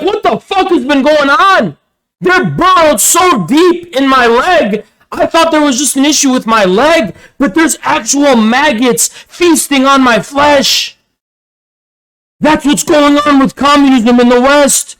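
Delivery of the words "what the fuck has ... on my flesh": acted high-pitched horror at the discovery; horrified outburst. Imagined patient discovering maggots in their own leg, acted horror. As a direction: play up the appalled disbelief, drawing out key words.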